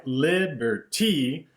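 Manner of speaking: "liberty" said slowly with a beat on each syllable; odd stress on liberty. Shown as a demonstration. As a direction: stretch "liberty" out evenly to fit the beat. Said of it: "that's not how you would really say it".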